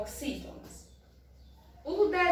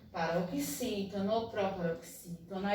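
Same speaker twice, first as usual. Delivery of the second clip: usual speaking voice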